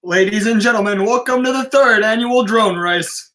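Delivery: booming, quick MC welcome to the crowd; announcer intro. Acted. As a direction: hype up the room like a race announcer. MC opens the drone race.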